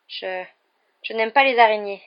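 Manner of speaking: a touch of tense fear. A narrator's reading. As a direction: say it with a tight nervous voice. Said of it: "d'une voix tendue".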